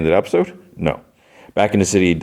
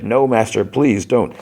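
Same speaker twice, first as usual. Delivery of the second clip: higher-pitched acted begging; pleading; 5 semitones higher than usual. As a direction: beg your master for mercy, pitched up. Young Maul begs his master.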